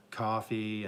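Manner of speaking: "coffee" in an upstate New York accent. Shown as a demonstration. New Yorker defending the way they talk, upstate accent on "coffee". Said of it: "stupid accent where you say coffee".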